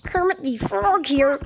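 lightly voiced frog impression; Kermit the Frog. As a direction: have a go at a frog character voice. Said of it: "I can sound like Kermit".

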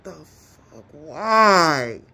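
slow, drawn-out disbelief; mock bewildered outcry; baffled exasperation. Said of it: "And this person like".

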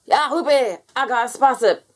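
high, bright-eyed birthday cheer; a blobby thrilled with his gift; excited. Acted. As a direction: show off the new spaceship, delighted.

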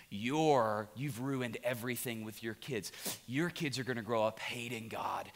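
softly voiced accusation; lightly acted voice of condemnation; accusing inner voice. Accuser telling a father he ruined his kids, condemning. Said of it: "like this voice was saying to me".

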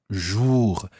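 JOUR with a rounded back oo vowel; French vowel. Shown as a demonstration. Teacher repeating the second syllable for Anna, rounded vowel. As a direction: round the lips through JOUR. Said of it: "Watch the vowel sound that you make there".

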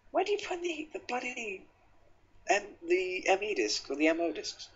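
hammy mock Yorkshire voice, pitched well up; Yorkshire accent. Gamer puzzling over discs in a put-on Yorkshire accent. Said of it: "I'm speaking in a Yorkshire accent".

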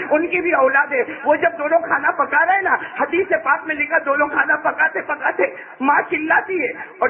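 high, pleading sermon voice; impassioned preaching. Acted. Preacher asking listeners to think of their own children, high and impassioned. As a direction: press the listeners to imagine it.

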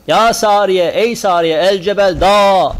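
loud call from the pulpit. Retold or imitated. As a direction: shout the name out to the far army. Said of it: "Böyle seslendi". (yüksek sesle seslenme)

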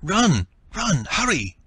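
loud, high screamed warning; hoarse scream. A narrator's reading. Woman urging the others to flee the collapse, screaming. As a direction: yell at them to flee. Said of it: "Mei Lin screamed hoarsely".

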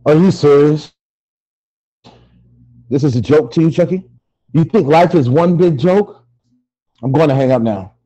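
loud, affronted disbelief; incredulous anger. Acted. Victim doubts tormentor's apology on phone, loud and affronted. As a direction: challenge the caller forcefully.

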